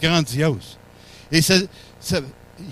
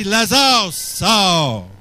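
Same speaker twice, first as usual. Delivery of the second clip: raised voice, calling a man out; loud command; much slower than usual. Acted. Preacher as Jesus calling Lazarus from the tomb, loud command. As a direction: call out the name, then drop on the order. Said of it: "Il a crié d'une voix forte".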